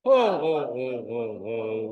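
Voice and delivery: big belly-laugh ho ho ho; Santa Claus laugh. Shown as a demonstration. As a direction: boom it out like Santa handing out gifts. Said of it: "five of these ho-hos".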